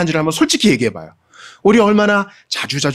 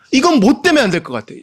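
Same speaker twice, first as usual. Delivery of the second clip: the same doubt pitched much higher, building; doubt rising higher; 9 semitones higher than usual. Retold or imitated. Preacher's doubt climbing higher in pitch. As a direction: push 때문에 up high, then let it fall. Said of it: "아, 저 사람은 안 될 것 같아".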